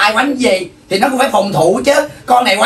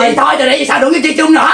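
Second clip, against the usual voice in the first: fast, higher-pitched argumentative snap; indignant quarrel; 5 semitones higher, faster than usual. Acted. Mother breaking off the children's friendship with a rival, indignant. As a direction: fire it back in a huff.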